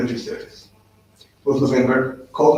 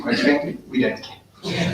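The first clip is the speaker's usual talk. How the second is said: mock dismissive commander; 5 semitones higher, 5 dB quieter, slower than usual. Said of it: "He said".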